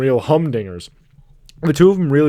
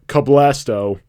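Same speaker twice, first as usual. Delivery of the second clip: louder retold battle cry; mock shout; 5 dB louder, much slower than usual. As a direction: shout it out, half in earnest. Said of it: "I shout".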